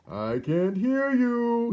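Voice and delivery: put-on loud, very high, slow childish shout. A narrator's reading. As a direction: drown out the mouse like a sulking child. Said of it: "he stopped to shout".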